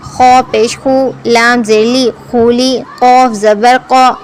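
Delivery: slow, measured syllable-by-syllable recitation; Qaida spelling recitation. Shown as a demonstration. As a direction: chant each letter and vowel evenly, holding the endings. Spells out Arabic syllables for learners.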